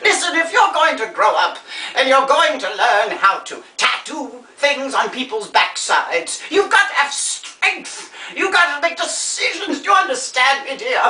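grande dame giving solemn life advice; theatrical old star. Acted. Old star advising a young helper, theatrically earnest. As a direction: lecture grandly, lingering on the phrases.

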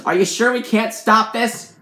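slow, loud, high complaint; strained, dragged-out appeal; agonised pleading. A narrator's reading. Agonised narrator pleads to stop.

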